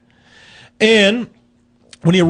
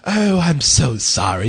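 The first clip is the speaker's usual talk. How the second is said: lightly voiced polite bear; 3 semitones lower, slower than usual.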